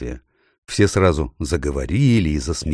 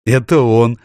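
giggling; 5 semitones higher, 6 dB louder than usual. A narrator's reading. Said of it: "почему-то хихикнула Джил".

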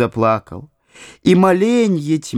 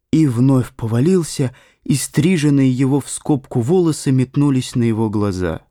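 ordinary delivery, nothing marked

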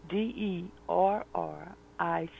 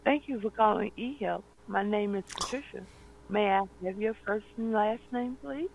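customer service voice; 3 semitones higher than usual. Real, not acted. Agent answers the call scripted.

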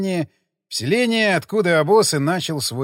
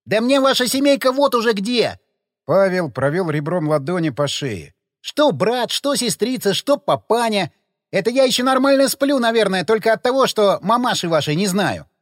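high, loud furious tirade; angry rant; 5 semitones higher, 4 dB louder than usual. A narrator's reading. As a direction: vent everything at once. Ranting at the family.

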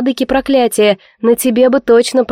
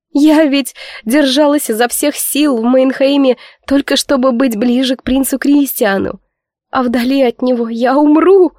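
wailing anew; 4 semitones higher than usual. Acted. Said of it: "взревела с новой силой сестра".

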